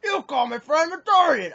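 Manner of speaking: high, loud, slow mock yell; retold screaming. Stranger accusing player over his friend, imitated scream. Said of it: "screaming and yelling, being like".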